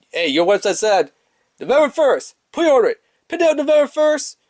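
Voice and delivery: high, insistent acted protest; retold indignant complaint. Customer quoting the website to store staff, indignant.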